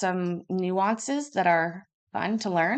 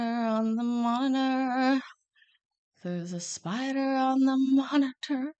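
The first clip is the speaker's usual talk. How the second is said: screaming at a spider; 5 semitones higher than usual. Real, not acted. Spider found on the monitor.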